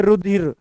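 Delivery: रुधिर said clearly as ru-dhir, correcting रचिर; correct pronunciation. Shown as a demonstration. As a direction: spell out रुधिर, not रचिर. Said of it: "ये रचिर नहीं है". (रुधिर का सही उच्चारण)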